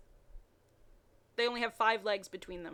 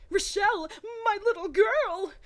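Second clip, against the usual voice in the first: much higher and louder father's cry; anguished cry; 11 semitones higher, 7 dB louder than usual. Acted. James crying out on finding his daughter. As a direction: cry out in relief and grief.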